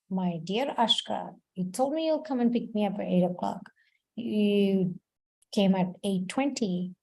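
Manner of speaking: gently but firmly explain the hurt; calm assertive talk. Acted. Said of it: "In the mode of goodness, we say".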